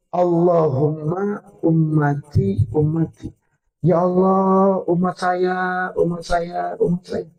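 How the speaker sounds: slow, drawn-out plea on a level tone; Prophet's plea. Retold or imitated. Preacher voices the Prophet praying for his people, slow drawn-out plea. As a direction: plead slowly, stretching each phrase.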